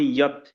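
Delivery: ইয়ত said carefully as "i-yat"; teacher pronouncing ইয়ত as "i-yat"; pronunciation demo of ইয়ত. Shown as a demonstration. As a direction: model ইয়ত with an opening i-y glide. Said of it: "এটা উচ্চারণ হবে".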